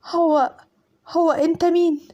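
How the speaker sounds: high, slow stammering fear; full of terror. Acted. Captive bride asking the stranger who he is, terrified. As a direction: stammer it out, frightened. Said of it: "بصوت مليان رعب".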